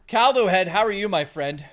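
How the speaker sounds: a big hello to a regular; excited greeting. Real, not acted. Streamer greets chatter Caldo Head with a loud, excited hello.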